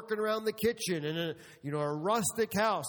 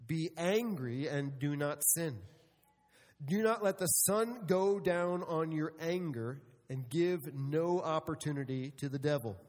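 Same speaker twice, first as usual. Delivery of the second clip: scripture reading; 3 semitones lower than usual. Acted. Reads scripture slowly.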